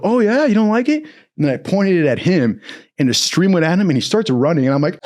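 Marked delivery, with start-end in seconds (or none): 0.0-1.0 taunting. Retold or imitated. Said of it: "I go".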